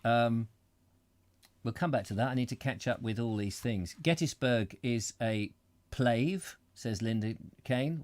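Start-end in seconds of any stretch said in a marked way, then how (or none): 4.0-6.6 Gettysburg is a "plave", read slowly as written, with a v; reading the typo aloud. Shown as a demonstration. Reading a viewer's typo out slowly, deliberately. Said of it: "whatever a plave is".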